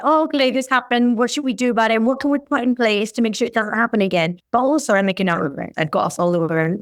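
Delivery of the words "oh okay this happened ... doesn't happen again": really nice way. Retold or imitated. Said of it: "a really nice way to say".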